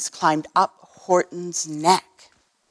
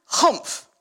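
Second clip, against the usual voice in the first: humph; 4 semitones higher than usual. Acted. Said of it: "Can you get a humph?".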